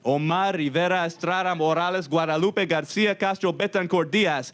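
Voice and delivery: high, grandly hammed-up declaration; mock avenger. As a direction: declaim it like a dramatic vengeance vow. Mock-heroic revenge speech to rider.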